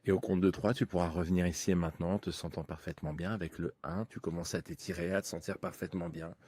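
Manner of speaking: right in your ear. Acted. Leads a hypnosis session.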